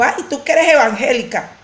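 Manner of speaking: mild mock outburst; imitated furious accuser. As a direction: imitate an angry accusation without shouting. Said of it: "esa persona estaba furiosa y me estaba gritando".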